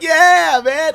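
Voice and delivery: high, loud excited yell; hyped cheer. Pretend. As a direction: shout it like a proud fan. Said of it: "and I'm like".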